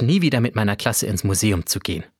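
usual speaking voice

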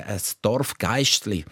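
normal talking voice

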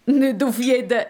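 lightly mocking jibe; mild teasing. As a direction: poke fun at your sister. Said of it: "spöttelt der Elias". (leicht spöttisch)

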